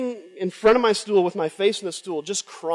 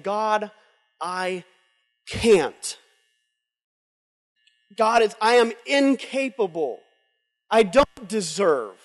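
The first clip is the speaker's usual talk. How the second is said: broken confession; much slower than usual. Retold or imitated. Voices broken surrender prayer.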